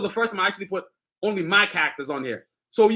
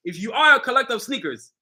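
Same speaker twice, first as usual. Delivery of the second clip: "are" leaned on deliberately; stress on ARE. Real, not acted. Creator addressing sneaker collectors, stressing "are". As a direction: repeat the condition, punching "are". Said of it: "I'm gonna stress that word".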